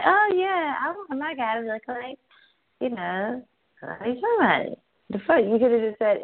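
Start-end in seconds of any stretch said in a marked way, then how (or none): 0.1-4.8 mock-caller whine. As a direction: mimic a clueless caller, airy and vague. Mocking a caller's vague answer.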